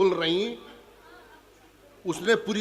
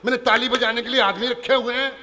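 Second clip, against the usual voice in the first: louder, higher, puffed-up rich man; snooty rich man; 5 semitones higher, 4 dB louder than usual. Retold or imitated. Rich guest in the audience refusing to laugh, pompous and loud. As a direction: boom it out like a self-important moneybag. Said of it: "तालियां तो बजा दो".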